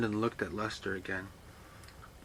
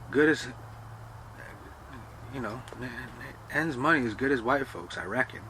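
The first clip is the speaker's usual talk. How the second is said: put-on old servant; 3 semitones higher than usual. Servant talks down to Lester about the show, lightly voiced. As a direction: grumble your way through it.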